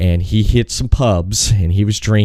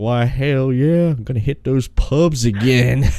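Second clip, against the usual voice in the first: put-on strong Tennessee accent; 4 semitones higher than usual. Quoting a cousin, in a thick tennessee accent. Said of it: "thick Tennessee accent".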